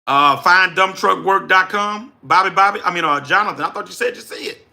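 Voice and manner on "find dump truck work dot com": slow and deliberate, every word clear; slow dictation. Real, not acted. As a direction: read the address out carefully. Giving the website address again.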